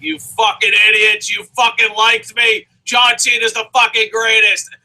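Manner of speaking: imagined heel rant. Pretend. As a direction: bark it like a villain scolding fans. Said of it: "I can't wait for Owens to be like".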